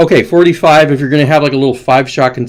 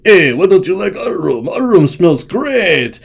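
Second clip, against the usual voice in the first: higher, drawn-out caricature voice; mock Russians; 5 semitones higher, slower than usual. Russians inviting everyone over to their room, mock boasting. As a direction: play a hammed-up boaster, slow on the ending. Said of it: "the Russians are like".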